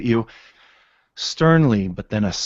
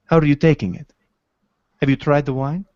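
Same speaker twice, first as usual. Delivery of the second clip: dwarf tavern patron; 6 semitones higher, 7 dB louder, faster than usual. Acted. GM voices dwarf NPC in tavern.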